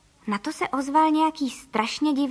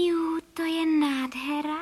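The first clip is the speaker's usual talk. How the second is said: delighted cry; 4 semitones higher, slower than usual. Acted. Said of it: "vykřikla paní Frejková".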